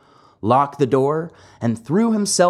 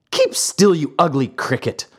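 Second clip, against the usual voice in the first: crying out; 4 semitones higher than usual. Acted. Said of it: "cried Pinocchio".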